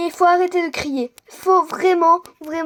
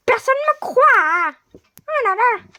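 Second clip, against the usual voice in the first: much higher, louder, complaining; high sulky prisoner; 9 semitones higher, 7 dB louder than usual. Acted. Prisoner moans that nobody believes her. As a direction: moan like a wronged prisoner.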